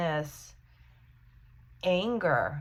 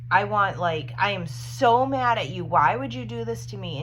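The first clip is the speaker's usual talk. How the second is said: imitating an angry outburst; 3 semitones higher, 5 dB louder than usual. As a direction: play the betrayed mourner lashing out. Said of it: "And you're like".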